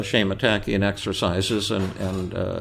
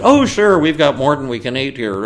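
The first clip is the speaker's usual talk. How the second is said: much higher, bright and loud; eager to share; cheerful offer; 5 semitones higher, 6 dB louder than usual. Retold or imitated. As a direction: diners gladly offering their dish. Diners cheerfully offering their food.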